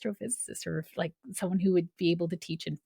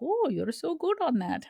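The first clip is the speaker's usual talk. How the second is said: high gushing mom voice; lightly voiced mom praising; mom's gushing voice; 9 semitones higher than usual. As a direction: gush like an impressed mother.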